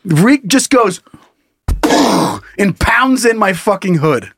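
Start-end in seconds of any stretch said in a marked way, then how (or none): 1.7-2.5 wordless mouth-made impact sound; drawn-out blown punch effect; imitated punch noise. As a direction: mimic a fist hitting a car hood.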